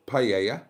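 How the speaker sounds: paella said slowly, as pie-AY-uh; "paella" with stress on the middle AY; wrong name attempt. Shown as a demonstration. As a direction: try "paella" as a mistaken name, drawn out. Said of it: "best Italian accent".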